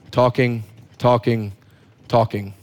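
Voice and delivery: spaced-out, lowering repetition; endless talking. Retold or imitated. Preacher portraying disciples who do all the talking, spaced-out droning repetition.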